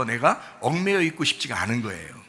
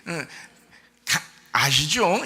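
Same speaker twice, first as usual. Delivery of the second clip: smiling prayer; much slower than usual. Shown as a demonstration. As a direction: say it lightly with a smile. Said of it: "그냥 웃으면서 해야 돼". (웃으면서 편하게 하는 기도)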